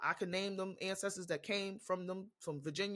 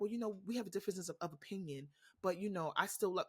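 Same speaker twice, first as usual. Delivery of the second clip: softer, hesitant mock politeness; mock-diplomatic; 5 dB quieter than usual. Imagining sitting politely with someone denying Black history, mock-diplomatic. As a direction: play the accommodating peacekeeper, quietly. Acting out polite agreeable disagreement.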